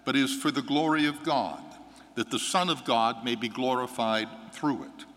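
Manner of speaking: measured, solemn proclamation from the lectern; Gospel reading. Acted. Priest proclaiming the Gospel to the congregation, solemn and measured. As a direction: read scripture clearly to the whole church.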